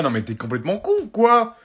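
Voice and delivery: loud parental telling-off; exasperated, loud warning; angry scolding. Acted. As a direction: scold him at full voice. Parent scolds child loudly.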